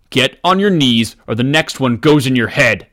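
threatening. Acted. Robber threatens at gunpoint.

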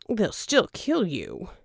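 slow, mock-concerned warning; slow and deliberate. A narrator's reading. Verdigris warning Jack about cigars, slow. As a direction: lay each word down slowly.

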